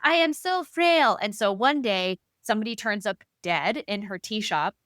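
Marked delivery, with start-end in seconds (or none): 0.0-1.2 higher, slow, put-on frail old voice; milk the helpless old lady bit; frail old lady act.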